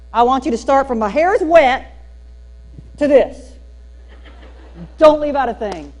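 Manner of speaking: loud, gee-whiz goofy charm with a big grin; goofy Gomer Pyle golly. Retold or imitated. Teacher to the glaring girls, loud goofy golly attitude. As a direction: play the harmless hick to win over the girls. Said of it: "Gomer Pyle, golly attitude".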